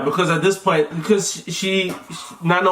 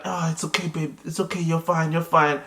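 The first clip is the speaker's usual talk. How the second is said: soothing; 3 semitones lower, 5 dB quieter than usual. Retold or imitated. Partner soothing her in labour.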